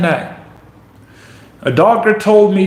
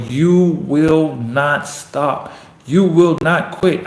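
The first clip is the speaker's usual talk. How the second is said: slow, word-by-word resolve on "you will not"; firm, measured defiance; fighting self-talk; slower than usual. Acted. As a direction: push back at the doubt, weighting each word. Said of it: "fight that voice with everything".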